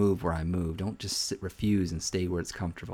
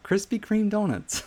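high, slow, marvelling emphasis; amazed delight; 11 semitones higher, slower than usual. Real, not acted. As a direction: savour it with a laugh of wonder. Amazed retelling widow's donut story.

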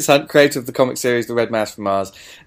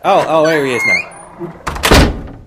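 staged greeting; 5 semitones higher, 6 dB louder, much slower than usual. Acted. Staged skit awaiting Tony.

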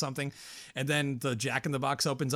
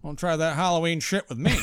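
louder, higher mock scolding; mock stern; 4 semitones higher, 6 dB louder than usual. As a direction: playfully warn him off.

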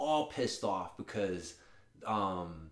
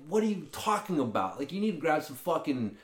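raised, fast disbelieving rant; incredulous rant; 5 semitones higher, 5 dB louder than usual. Retold or imitated. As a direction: hit him with how absurd it is. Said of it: "I'm like".

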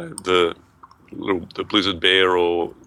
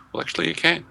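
teasing reveal; 10 semitones higher, 4 dB quieter, faster than usual. Acted. Mock reveal after doubt.

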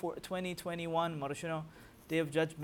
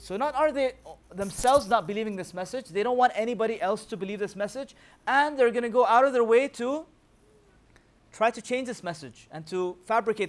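building preaching intensity; 5 semitones higher, 7 dB louder than usual. Real, not acted.

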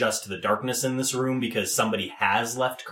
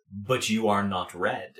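communal rat voice; 3 semitones lower, 3 dB quieter than usual. Acted. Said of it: "kind of that communal voice".

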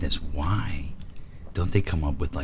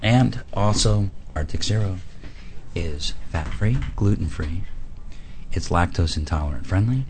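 infomercial read. Acted. Reads product pitch like ad.

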